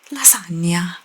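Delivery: put-on lasagna in a showy Italian accent; mock Italian accent. Mimicking English speakers who annoy people, showy Italian accent on lasagna. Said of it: "crazy accent. Not just Italian".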